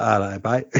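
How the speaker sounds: mock old-movie Cockney with a rising end; exaggerated Cockney accent. Mimicking old film actors to a co-host, exaggerated Cockney. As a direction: put on a hammed-up Cockney greeting. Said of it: "the Cockney accent, like, they all seem to speak like an exaggerated Michael Caine".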